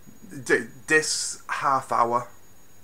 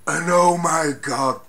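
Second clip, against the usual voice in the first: excited gush; 4 semitones higher, 8 dB louder, slower than usual. Real, not acted. Excited about big scene.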